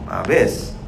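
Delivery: normal talking voice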